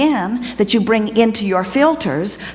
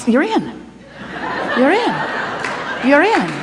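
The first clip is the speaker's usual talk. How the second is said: excited; 5 semitones higher than usual. Pretend. Gaining access to the vortex.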